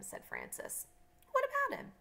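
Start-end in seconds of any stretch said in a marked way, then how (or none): 1.3-1.9 put-on high, loud child's comeback; defensive challenge. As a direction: challenge him, voice shooting up. Children quarrel over friend.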